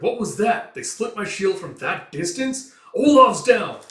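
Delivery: high, loud alarmed cry; shocked shout. Acted. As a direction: yell in disbelief as a man falls. Soldier sees comrade shot.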